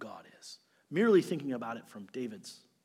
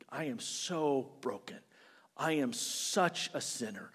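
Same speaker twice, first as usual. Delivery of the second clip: hushed confession; 5 dB quieter than usual. Pretend. Voicing a broken sinner's confession.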